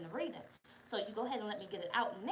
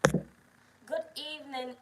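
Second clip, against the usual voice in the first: slow drawn greeting; 5 semitones higher, much slower than usual. Real, not acted. Host greeting the chat, slow and drawn out. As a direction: stretch out good evening slowly, falling. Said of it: "drawn-out slow greeting".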